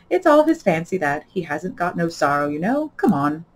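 loud, brusque creature voice; gruff Gryphon voice. Acted. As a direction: bark it out like a gruff beast.

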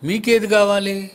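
a preacher shouting a challenge; loud challenge. Real, not acted. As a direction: call out to the men.

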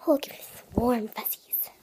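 loud, breathy whispered gush. Real, not acted. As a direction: swoon over the toy in a forceful whisper. Gushing over a cute toy.

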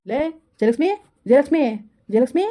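a different man shouting for his wife; husband calling. Acted. Husband voiced, calling loudly. (ಗಂಡ ಹೆಂಡತಿಯನ್ನು ಜೋರಾಗಿ ಕರೆಯುವ ಧ್ವನಿ)

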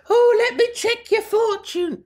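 high, airy mystic voice; fortune teller voice. Retold or imitated. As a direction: play a dreamy old fortune teller. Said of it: "She's like".

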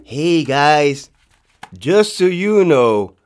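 slow, drawn-out mock announcement. Captain C announces a memorandum to the class, mock-deliberate. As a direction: imitate a captain slowly spelling out a memo.

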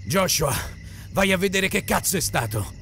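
comando secco dell'uomo barbuto; ordine. A narrator's reading. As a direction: dare un ordine al ragazzo. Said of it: "ordinò l'uomo barbuto". (tono di comando)

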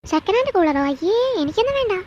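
high, scornful refusal; disgusted scorn. Acted. Spoilt wife to husband, scorning a second-hand cooler. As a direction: turn up your nose at it.

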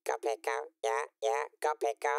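processed character voice, a little loud; Pico effect voice. Acted. Demoing the Pico vocal effect for the stream. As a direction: talk through the Pico voice effect. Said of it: "the one we used to make Pico's voice".

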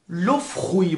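لو فروی with a KH after the F. Shown as a demonstration. (لو فروی با صدای خ بعد از ف)

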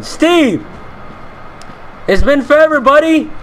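high-pitched, hammed-up accusation; drawn-out, exasperated mock complaint; mock outrage. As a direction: confront an old buddy in playful indignation. Confronts game character Steve in outrage.

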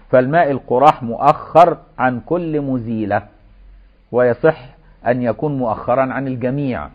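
measured classical Arabic recitation of a legal text; formal text reading. Acted. Teacher reads the washing sequence to students, formal reading. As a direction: read it out in careful formal phrases.

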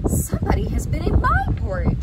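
very high, loud storybook mother bear; high-pitched outcry as a mother bear; Mama Bear. Acted. Mama Bear finds her porridge disturbed, high indignant mother bear. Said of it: "said Mama Bear".

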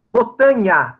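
"botanha" with nasal NH and open A ending; variant pronunciation. Shown as a demonstration. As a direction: model "botanha" as speakers sometimes say it. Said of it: "como eles às vezes falam". ("botanha" como eles às vezes falam)

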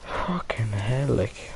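slow, whispered curse of frustration; exasperated near-whisper. Real, not acted. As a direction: let it out slowly under your breath. Losing player swears under breath.

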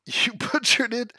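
slow, amused accusation through a laugh. Real, not acted. Accusing the chat, laughing. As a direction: tease them while laughing.

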